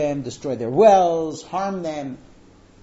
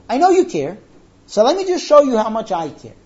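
raised, louder earnest appeal; acted heartfelt plea; 5 semitones higher, 7 dB louder than usual. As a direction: plead emphatically as the daughter to her father. Voices girl's wordless plea to father.

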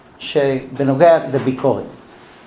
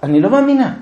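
mock crying wife; 7 semitones higher, faster than usual. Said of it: "האישה פורצת בבכי".

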